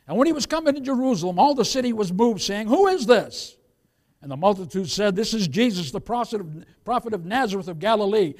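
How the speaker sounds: emphatic pulpit reading; scripture reading. Real, not acted. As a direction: declaim the verse to the congregation. Reads scripture aloud to congregation.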